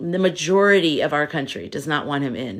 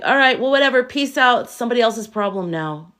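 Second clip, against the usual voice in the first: mock shrug; 5 semitones higher than usual. Imitating an imagined careless Biden, breezy mock shrug. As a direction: toss it off like someone who doesn't care. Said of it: "just be like".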